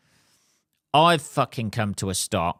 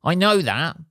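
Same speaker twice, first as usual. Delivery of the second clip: exasperated retort; 8 semitones higher, 3 dB louder than usual. Retold or imitated. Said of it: "I was like".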